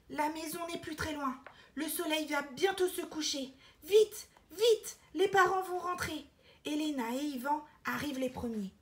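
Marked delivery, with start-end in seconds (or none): 3.8-6.3 higher, louder hurried telling; excited storyteller; urgent narration. A narrator's reading. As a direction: rush the listener along. Narrator urges hurry.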